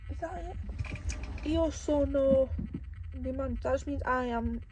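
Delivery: lisping with a retainer in. Real, not acted. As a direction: speak round a retainer, lisping. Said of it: "that's why I'm a bit lispy".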